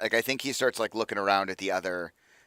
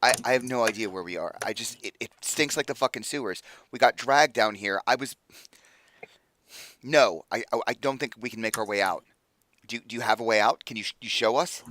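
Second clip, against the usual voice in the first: higher, mildly agitated plea; agitated captive; 3 semitones higher than usual. Acted. Freed captive begs rescuers to get them out of the sewers, agitated. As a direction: plead for a way out, a touch worked up.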